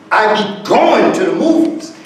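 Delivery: going rises and stands out; stress on going. Shown as a demonstration. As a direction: push the word going up. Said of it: "we're gonna put a stress on going".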